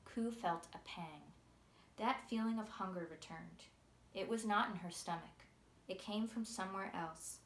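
put-on steady, gentle read-aloud of a children's novel; story narration. A narrator's reading. Author reading her book's first chapter to listeners, storytelling voice.

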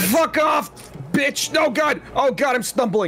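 high-pitched game panic; panicked yelling. Pretend. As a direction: yelp as if losing your footing. Attacked, stumbling on the mountain.

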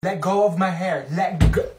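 loud, pained yell to let go; pained shout. Acted. Student yelling at a classmate to let go of her hair. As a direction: shout as your hair is pulled. Hair pulled in mock fight.

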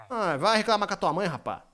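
usual speaking voice

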